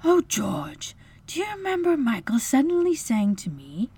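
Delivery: breathy, high, tender recollection; wistful mother. A narrator's reading. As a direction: recall a lost child fondly. Grieving mother remembering her children.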